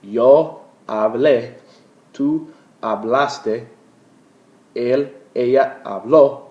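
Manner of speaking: slow, loud recital of the whole conjugation; teacher running through the preterite forms. Shown as a demonstration. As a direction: drill each form slowly for the class to repeat. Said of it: "let's run through those again".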